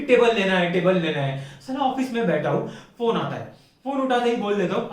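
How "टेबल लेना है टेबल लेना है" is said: imitated nag, repeating the demand; mocking, insistent repetition; mock repetitive nagging. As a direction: nag like a girlfriend on a loop. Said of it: "फिर उसके बाद के दो हफ्ते दिमाग चाटेगी".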